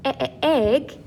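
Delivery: "e-, e-, egg", opening vowel repeated before the word; first sound repeated. Shown as a demonstration. Teacher isolating the first sound of egg, repeated short "e". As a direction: stutter out the short "e" that starts "egg". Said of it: "you kinda get that first sound".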